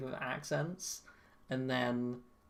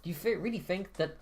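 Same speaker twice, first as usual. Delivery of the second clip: attempted German accent drifting into French; lightly French-accented merchant, emphatic lilt; slipping French accent; 3 semitones higher, 5 dB louder than usual. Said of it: "starting to slip into a French accent".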